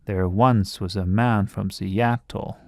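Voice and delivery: slow, lilting da-DUM-da beats; amphibrach rhythm. Shown as a demonstration. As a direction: read it with a swinging lilt. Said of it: "you can hear that".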